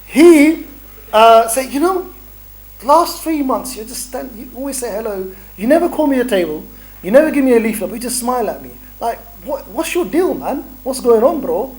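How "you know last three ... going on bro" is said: put-on higher-pitched go at a Nottingham accent; lightly put-on Nottingham lad; attempted Nottingham accent. Passer-by asking the stall volunteer about his smiling, attempted Nottingham accent. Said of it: "I don't know if that's a Nottingham accent".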